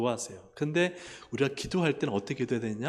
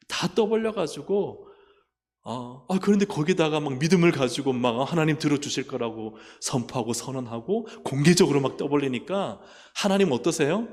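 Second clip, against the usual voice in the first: rising preaching; 8 dB louder than usual. Real, not acted. Building preaching intensity.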